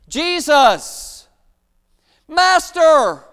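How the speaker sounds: loud, high call from afar; crying out. Acted. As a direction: call out across the distance. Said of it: "they cried out".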